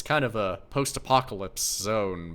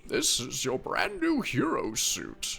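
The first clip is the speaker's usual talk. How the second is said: put-on old man voice; slower than usual. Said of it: "my old man voice".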